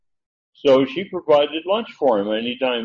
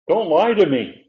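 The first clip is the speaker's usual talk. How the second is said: sharp higher indignant cry; 6 semitones higher, 5 dB louder than usual. Acted. Woman rebuking the prophet, higher and louder. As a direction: throw it back at him, hurt. Paraphrase of her protest.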